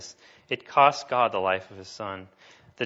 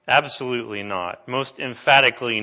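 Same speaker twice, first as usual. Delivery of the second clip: emphatic denial; 7 dB louder than usual. Acted. Paul's emphatic denial, translated.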